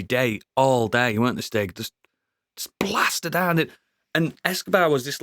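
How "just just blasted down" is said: whisper. Real, not acted. Describing shootings.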